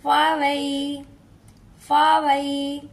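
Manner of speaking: फावई said softly, the ya gliding gently; gentle leen vowel. Shown as a demonstration. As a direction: ease lightly through फावई. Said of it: "इसको नरमी से पढ़ लेंगे".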